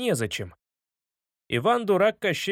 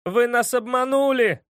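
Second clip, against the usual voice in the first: put-on loud, higher boy's cry; yelling; 7 semitones higher, 5 dB louder than usual. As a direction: shout the accusation. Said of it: "завопил Стас". (громкий высокий крик мальчика)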